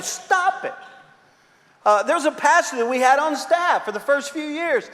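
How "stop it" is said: high, curt "Stop it" from the sketch therapist; deadpan comic command; blunt psychiatrist. Pretend. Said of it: "I would just yell at you".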